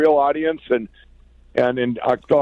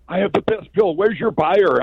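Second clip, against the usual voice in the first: eager, a bit higher and bright-eyed, selling hard; excited pitch; 5 semitones higher than usual. Retold or imitated. Inventor to store clerk, eagerly pitching his pillow. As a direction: pitch it like your big break. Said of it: "and I'm all excited".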